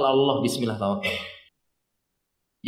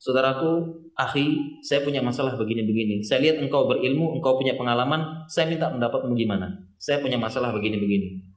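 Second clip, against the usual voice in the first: lower, unhurried and composed request; calm and composed; 5 semitones lower, 3 dB quieter than usual. Retold or imitated. Believer calmly consulting a learned brother, composed. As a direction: ask for advice without a trace of worry. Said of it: "dia tunjukkan wajah yang tenang".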